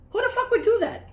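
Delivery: high, loud, laughing outrage; outraged yell. Real, not acted. Ranting to viewers about someone keeping an old picture, high incredulous yell. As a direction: yell it in disbelief, half laughing.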